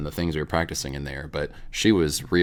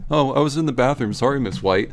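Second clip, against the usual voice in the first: sheepish student; 7 semitones higher, 3 dB louder than usual. Retold or imitated. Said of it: "you'd come back and be like".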